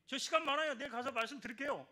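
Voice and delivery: a churchgoer eagerly agreeing to come; eager reply. Retold or imitated. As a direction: jump at the invitation. Eager convert replies to pastor.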